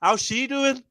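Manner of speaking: light Geordie accent try; Newcastle accent. Shown as a demonstration. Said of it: "I'm trying to do your accent".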